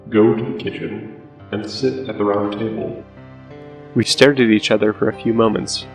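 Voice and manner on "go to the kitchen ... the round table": slow, eerie, distant note voice. Acted. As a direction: read it out slow and ghostly. Reading the mysterious paper note.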